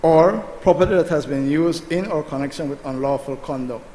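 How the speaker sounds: loud, emphatic reading of a clause; slow reading. Real, not acted. Senator resumes reading the clause to an opponent, emphatically. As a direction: read it out firmly, stressing the first words. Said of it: "I will read it slow for you".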